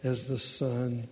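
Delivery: slow, low, measured recitation; hushed, reverent verse reading; hymn verse recital. Acted. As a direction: recite the hymn softly and unhurriedly.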